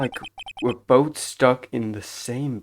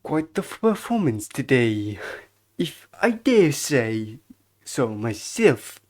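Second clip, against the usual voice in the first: controlled, lightly voiced bellboy; slow down into a deferential bellboy line; bellboy character; 4 dB louder than usual. Bellboy praising a guest's performance, measured servile voice.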